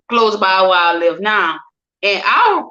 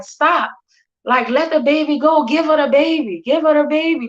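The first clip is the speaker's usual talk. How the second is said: higher-pitched retold pleading; mild urgent plea; 5 semitones higher than usual. Everybody intervening over the baby, mildly urgent retold plea. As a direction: imitate onlookers urging someone to stop, pitched up.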